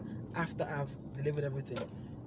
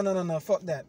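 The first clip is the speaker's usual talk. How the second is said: angry; 3 semitones higher, 7 dB louder than usual. Retold or imitated. Angry phone call to company.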